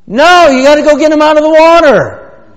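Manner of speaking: high, full-force preacher's shout; loud, high-pitched rebuttal dropping at the very end; emphatic shout. Real, not acted. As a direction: holler the correction from the pulpit. Preacher shouts answer to naive question.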